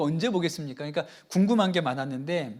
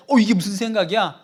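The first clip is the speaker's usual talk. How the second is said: louder, alarmed then commanding; startled rebuke; 5 dB louder than usual. Retold or imitated. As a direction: catch the thought and drive it out. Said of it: "이렇게 했으면". (놀라서 단호하게 꾸짖듯)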